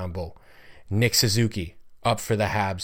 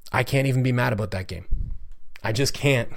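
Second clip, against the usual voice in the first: voice cracking; 2 semitones higher than usual. Real, not acted. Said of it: "My voice is, like, cracking here".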